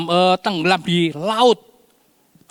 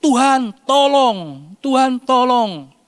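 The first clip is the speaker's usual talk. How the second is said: higher, louder, drawn-out cry for help; desperate plea; 7 semitones higher, 4 dB louder, slower than usual. A narrator's reading. Preacher acting Peter crying to the Lord, pleading. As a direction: beg the Lord slowly and loudly. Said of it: "Dia katakan".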